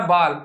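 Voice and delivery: ball said as "baal" with open "aa"; wrong vowel demo. Shown as a demonstration. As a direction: mispronounce ball with an "ah". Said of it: "not a ball".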